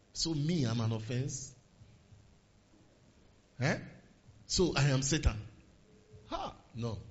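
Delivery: muttered, wounded grumble; offended sulk. Pretend. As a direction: act hurt and sulky, low. Voicing offended church member.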